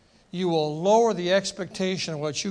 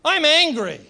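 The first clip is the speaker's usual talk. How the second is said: a touch of voiced anger, a bit higher; Jesus saying he's angry; 6 semitones higher than usual. Preacher voicing Jesus naming his anger, mild mock anger. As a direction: declare it plainly as a mild mock outburst.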